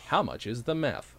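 slow, light upstate New York hick accent. Shown as a demonstration. Trying out a lost home accent, slow light hick. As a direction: attempt a country upstate accent, slowly. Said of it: "in the accent".

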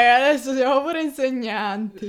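put-on high, loud Neapolitan accent. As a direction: say it like someone from Naples. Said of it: "Perché hai un accento napoletano?".

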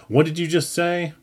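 high squeaky little man; thin, squeaky boss voice. A narrator's reading. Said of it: "he had a squeaky little voice".

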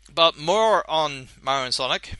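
talking while chewing gum; mouth full. Real, not acted. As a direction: say it around a wad of gum. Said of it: "Sorry, I'm chewing".

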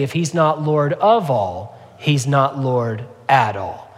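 slow, weighty preacher's maxim; quoting old-time preachers. Retold or imitated. Pastor quoting old-time preachers to the congregation, slow and weighty. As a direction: lay out each word slowly like an old-time preacher. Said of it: "you'll hear sometimes old-time preachers say".

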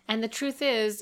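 usual speaking voice

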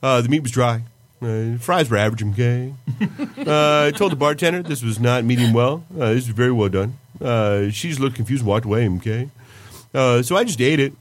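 lightly voiced school counselor, okay ticks; Mister Mackey. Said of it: "Are you doing Mister Mackey?".

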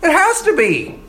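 high insistent friends; squeaky mock of Job's friends. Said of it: "his friends say".

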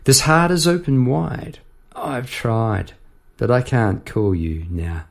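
chorus lines spoken, sinking slow at the end; reciting the chorus. Shown as a demonstration. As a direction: say the chorus slowly, letting it drop. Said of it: "Here's the chorus".

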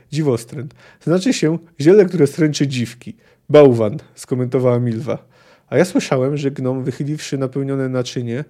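reading a novel aloud with lightly voiced characters; story narration. A narrator's reading. Lecturer reading a Witcher passage to the class, story narration. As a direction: tell the tavern scene like a storyteller.

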